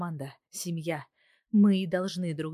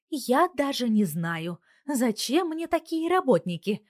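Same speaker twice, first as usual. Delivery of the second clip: slow, then higher, feigned doubt; strained; 7 semitones higher, 5 dB louder than usual. A narrator's reading. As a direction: make them sweat with forced disdain. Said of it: "натянуто отвечает Мила". (натянуто, с ленцой)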